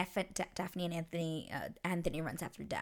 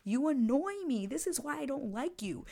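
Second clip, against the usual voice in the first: higher-pitched exasperated retort; mock yell; 5 semitones higher than usual. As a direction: act out an annoyed outburst without much volume. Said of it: "she just yells at him".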